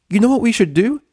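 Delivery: very high, loud, gushing; squealing delight; ecstatic Pinkie. Acted. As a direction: burst with party excitement. Pinkie gasps, party idea.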